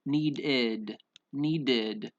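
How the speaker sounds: "needed" in two careful syllables, need-did; clear -id ending. Shown as a demonstration. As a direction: sound out "needed" with a full id. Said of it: "So we would pronounce it".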